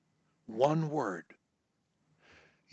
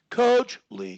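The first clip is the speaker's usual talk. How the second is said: out of his register; 8 semitones higher, 4 dB louder than usual. Shown as a demonstration. Coach shows a stutterer a higher register, pitched up. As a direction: Coach Lee pitched much higher and a bit louder. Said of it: "When I come out of my voice register".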